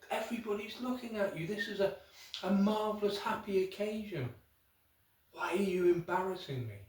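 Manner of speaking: high, fast, hushed reproach; a mortified husband hissing at his wife; husband scolding his weeping wife at the christening, embarrassed. Acted.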